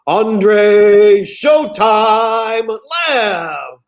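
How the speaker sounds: long drawn-out booming ring intro; boxing ring announcer. Shown as a demonstration. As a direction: stretch the name out like a fight announcer. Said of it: "in a boxing announcer's voice".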